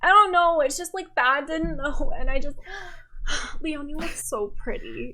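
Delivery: lightly voiced drunk compliment; tipsy girl gushing to a friend in the bathroom. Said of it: "This is girls drunk in the bathroom".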